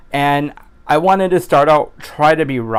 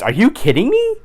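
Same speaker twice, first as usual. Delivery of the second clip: very high, rising incredulous cry; mock outrage at the weather; squealed disbelief; 10 semitones higher than usual. Vlogger reacting to rain, very high mock outrage. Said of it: "If it rains".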